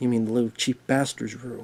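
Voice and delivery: mock mutter under breath. Retelling what a man muttered to his companion at a double-date dinner, retelling an under-breath mutter. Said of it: "under his breath he goes".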